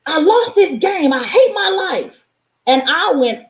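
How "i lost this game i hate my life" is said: put-on high, slow, frustrated kid's wail; upset child. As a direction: mimic a child raging at a lost game. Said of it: "He said".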